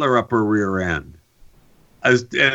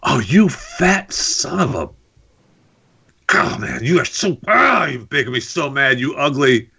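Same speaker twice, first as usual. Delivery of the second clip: mock gamer rant; 6 semitones higher than usual. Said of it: "and I'm like".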